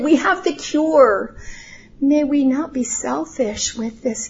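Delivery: quiet, earnest prayer to God. Acted. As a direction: pray softly and sincerely for the church. Opening prayer before sermon.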